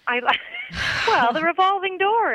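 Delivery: laughing. Real, not acted. Teasing joke with laugh.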